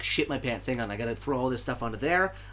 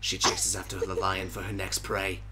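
slow, solemn wildlife narrator; nature documentary narrator; 3 semitones lower than usual. Acted. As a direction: narrate the hunt gravely.

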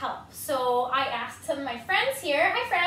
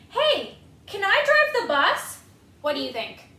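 pigeon begging; 6 semitones higher, 6 dB louder than usual. Acted. Pigeon begging the kids for the bus, high and wheedling. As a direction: coax like a pigeon begging for the wheel. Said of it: "pigeon pleading to drive".

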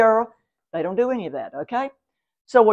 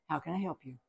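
much softer, calm and even; 6 semitones lower, 14 dB quieter, faster than usual. Shown as a demonstration. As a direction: give them no energy, just calm. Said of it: "Just say".

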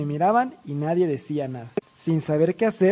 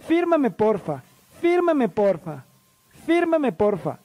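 high, repeated fan plea; high start falling away on each plea; acted autograph begging; 5 semitones higher, slower than usual. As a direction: beg each one in the same pitched-up singsong. Begging each member to sign.

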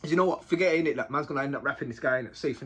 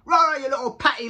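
mock bully taunt; imitating Boxer; 4 semitones lower, 6 dB louder than usual. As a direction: mimic the bully sneering at Bandit. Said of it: "he's like".

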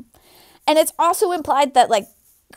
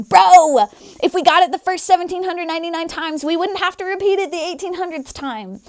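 mock protesting reply; 5 semitones higher, 3 dB louder than usual. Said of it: "I responded to him".

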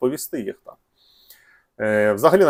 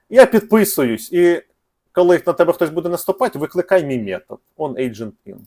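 lightly voiced device, higher and louder; device speaking; 5 semitones higher, 4 dB louder than usual. Device tells the trigger input it is subscribing, lightly acted voice. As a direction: raise pitch and volume slightly acting the device. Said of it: "він каже, trigger input".

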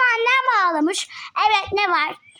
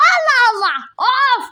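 frustrated; 3 semitones higher, 5 dB louder than usual. Acted. Kid throwing a frustrated fit.

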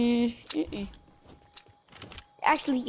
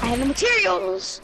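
raging gamer; 8 semitones higher than usual. Real, not acted. Gamer frustrated outburst.

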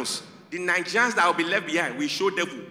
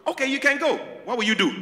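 lightly voiced Nigerian mom; 7 semitones higher, faster than usual. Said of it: "Your mom says".

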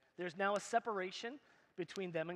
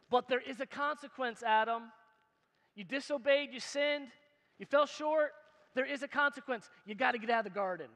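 stern pronouncement; 4 semitones higher, 5 dB louder than usual. Pretend. God pronouncing Adam's consequence.

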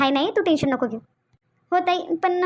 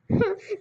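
short sob; 4 semitones higher, 4 dB quieter than usual. Acted. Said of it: "रडू नको, बिलकुल रडू नको".

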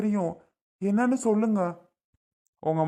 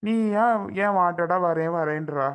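raised, higher sarcastic refusal; sarcastic brush-off; 4 semitones higher than usual. Acted. Husband rejects his wife's offer to serve him, raised sarcastic tone. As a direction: mockingly wave her off, voice pitched up. Husband snaps at wife in quarrel.

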